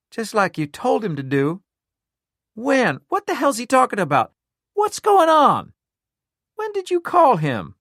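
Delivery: climbing astonished outburst. A narrator's reading. Astonished demands for answers.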